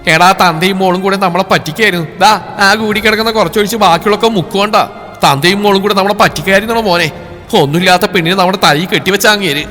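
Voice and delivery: half cry, half accuse; tearful rage. Acted. Mother wailing to her son that they were cheated, tearful anger. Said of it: "കരച്ചിലോടെ".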